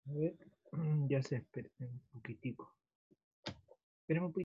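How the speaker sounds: quick, distant phone voice; faint, fast, far from the mic; phone held away. Real, not acted. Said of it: "Está un poco bajito".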